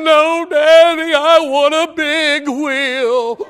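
put-on slow, high child's reply; little boy voice. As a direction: speak as a small boy turning it down.

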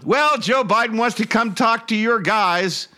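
high, mocking Southern politician voice; hammed-up Southern rally speech; mock Southern accent. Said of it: "and she went on".

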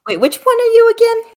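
put-on high, puzzled older woman; high confused grandma. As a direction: ask it high and befuddled. God confused, character voice.

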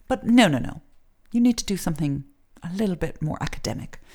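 mock prim English-accented guidance counselor; snooty English accent. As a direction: dismiss them politely in a lightly snooty English accent. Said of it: "that sort of snooty accent".

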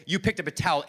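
rousing sermon cadence; preaching. Acted. Pastor rallying the congregation, preaching. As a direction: preach it to the church.

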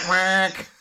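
short mock duck quack. Host voices the duck doctor's quack, mock duck sound.

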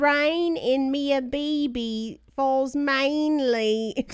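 My Fair Lady. Pretend. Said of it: "That was a My Fair Lady joke".

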